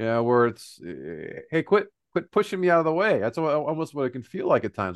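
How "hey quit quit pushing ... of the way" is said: acted, touchy, defensive tone, pitched up. Acting out how a person nearing retirement answers: imitating a defensive retiree. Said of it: "very defensive".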